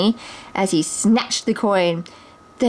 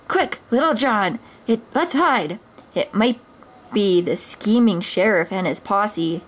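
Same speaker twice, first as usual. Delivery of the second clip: lightly voiced bold hero, urgent; a hint of a heroic outlaw; Robin Hood voice. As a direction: hurry your friend into hiding. Robin's voice in story.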